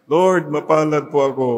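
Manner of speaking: a firmer repeat of the prayer; mildly stronger prayer line. Shown as a demonstration. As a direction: say it again so it is heard. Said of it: "One more time".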